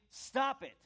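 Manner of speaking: high, loud repeated order to the devil; rebuking the devil, loud and high; defiant shout. Acted. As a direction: yell it at the devil, fed up. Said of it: "is to say".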